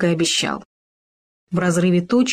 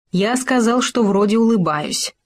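mildly emphatic, with СКАЗАЛ raised in pitch; 3 semitones higher than usual. A narrator's reading. Хома corrects the gopher about his smile, emphatic. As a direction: make a point of «сказал», lifting it. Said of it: "подчеркнул Хома".

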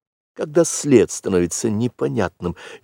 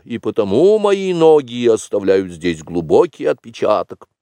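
put-on high, animated boy's voice, louder on the waiting; eager young Mowgli; 5 semitones higher, 4 dB louder than usual. Mowgli acting out the waiting hunter, eager and high. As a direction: act out each clue with keen energy.

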